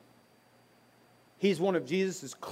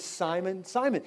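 calling Simon; 3 semitones higher than usual. Retold or imitated. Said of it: "he says it twice to arrest his attention".

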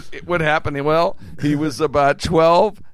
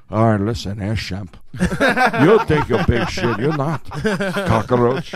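Moe voice; 3 dB louder than usual. Retold or imitated. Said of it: "if it was Mo was Cuban".

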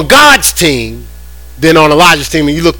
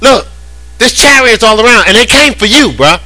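panicking servant; 7 semitones higher than usual. Retold or imitated. Frightened servant warning Elijah of the chariots, in mock panic. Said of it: "He was panicking".

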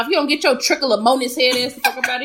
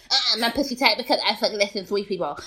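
softer, put-on voice of a bragging woman; mocking a smug woman; 4 dB quieter than usual. Host mocks bragging women in a put-on voice. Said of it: "bitches who be like".

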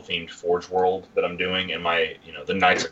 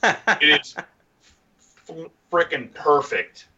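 excited; 7 semitones higher, much slower than usual. Real, not acted. Gushing over a model head.

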